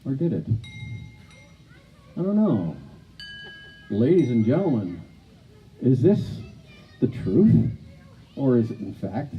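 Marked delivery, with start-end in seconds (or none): 3.9-9.3 game show host. Acted. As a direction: build suspense like a quiz host. Host addresses audience, game show.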